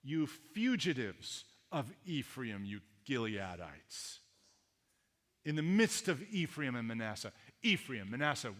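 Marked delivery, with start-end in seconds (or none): 0.0-4.2 mocking taunt. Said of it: "It's like a taunt".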